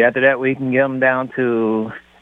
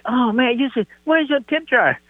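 high mock passenger voice; 11 semitones higher than usual.

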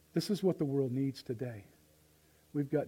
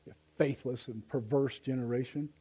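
nice Jesus. Acted. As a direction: say it kindly, almost sighing. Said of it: "the nice Jesus".

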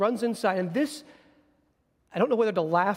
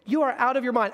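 laughing dismissal. Acted. Church dismisses Rhoda, laughing.

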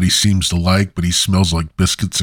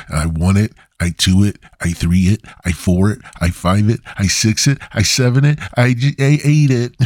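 rising silly count; 2 semitones higher than usual. Pretend. Counting joke rising in pitch.

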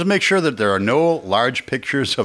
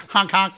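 silly clown; 7 semitones higher than usual. Pretend. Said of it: "sound like you were a kid honking".

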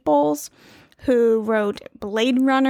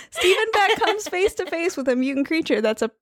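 drinking while reading; sipping through a straw; 5 semitones higher than usual. Real, not acted. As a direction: talk between sips of a drink. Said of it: "I'm drinking and it's due".

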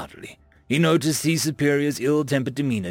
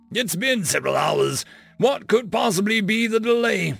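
glowering; 9 semitones higher than usual. A narrator's reading. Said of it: "glowered at the technician".

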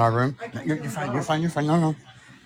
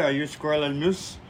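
mild mock Russian accent; a hint of Russian accent; not-so-good Russian accent; 5 dB quieter than usual. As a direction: repeat it in a rough Russian accent. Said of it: "My, my Russian accent's not so good".

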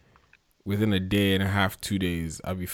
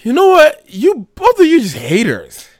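mock outburst; 11 dB louder than usual. Real, not acted. Playful outburst at both cohosts.

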